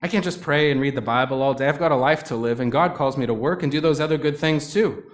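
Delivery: a mock frazzled Martha, half-pleading; exasperated objection. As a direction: rattle off the chores like an overworked host. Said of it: "You're like".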